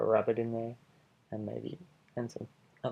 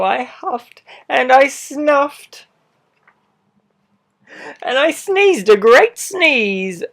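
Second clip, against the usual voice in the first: a lightly voiced sly wolf telling his side; charming wolf pleading innocence, animated; wolf narrator; 4 semitones higher, 17 dB louder than usual. Wolf narrating his own story.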